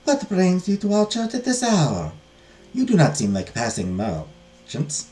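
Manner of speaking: slow, measured abbess; questioning abbess. Acted. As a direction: draw out the question to strangers. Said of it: "I'll just give her a normal voice".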